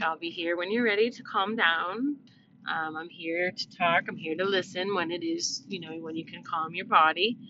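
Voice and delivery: put-on calm her down softly, like comforting a toddler mid-tantrum; soothing and quiet. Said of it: "soothingly talk to her quietly".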